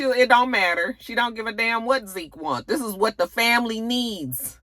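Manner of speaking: high, firm mother voice; dismissive mother. Retold or imitated.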